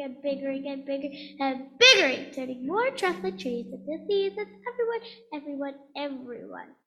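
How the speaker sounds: loud angry shouting at the Lorax; yelling. Acted. Once-ler yelling at the Lorax, furious loud rant. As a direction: shout him down, furious and defiant. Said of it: "I yelled at the Lorax".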